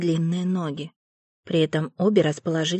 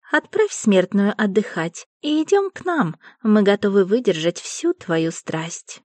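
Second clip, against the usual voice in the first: seductive fairy; 2 semitones higher, 3 dB louder than usual. Acted. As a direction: coax him with a breathy lure. Fairy voiced in story.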